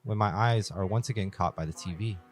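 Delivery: measured first-person story reading; horror story narration. A narrator's reading. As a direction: narrate it carefully, phrase by phrase. Reads horror story aloud.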